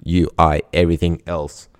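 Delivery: low deadpan chatbot bloke; Bob voice. Pretend. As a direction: answer low as the male bot. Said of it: "you better do a Bob voice".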